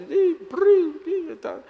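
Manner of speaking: high squealed mock curse noise, very high; shrill nonsense stand-in for swearing; mock cursing squeal. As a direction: squeal out a jumble of curses in her place. Wife cursing, sound imitated.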